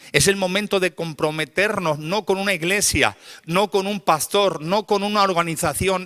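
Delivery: high, insistent altar call; urgent preaching. Real, not acted. Preacher calls church to commit to God, urgent preaching.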